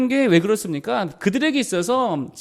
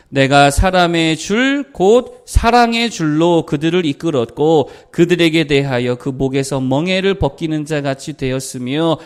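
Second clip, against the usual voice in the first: scripture reading; 4 semitones lower, 4 dB louder than usual. Acted. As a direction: draw each phrase out for the congregation. Reads scripture aloud.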